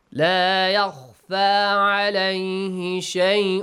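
slow recitation, tanween hidden in the nose; ikhfa, hidden noon. Shown as a demonstration. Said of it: "hide the sound".

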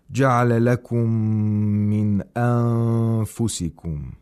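measured recitation with clear nun; Quran recitation. Shown as a demonstration. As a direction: recite with held nasal sounds. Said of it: "We have idhar of nun sakina".

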